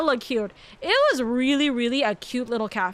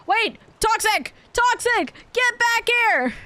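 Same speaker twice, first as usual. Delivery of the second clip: higher, urgent call after someone leaving; slow, pitched-up call across the room; 8 semitones higher, slower than usual. Real, not acted. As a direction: shout after him to come back. Calling out to friend leaving.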